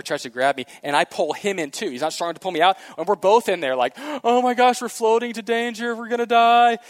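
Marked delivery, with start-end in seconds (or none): 4.2-6.8 retold panic. Two boys panicking in pond.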